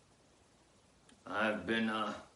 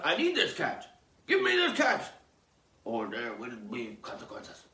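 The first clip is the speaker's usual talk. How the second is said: threatening demand; 4 semitones higher, 4 dB louder than usual. Acted. Cat owner's threat quoted.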